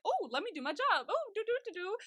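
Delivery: high, sing-song mimicry of a busybody; mock their eagerness in a high voice; mocking paparazzi. Imitating paparazzi following a celebrity around, mocking.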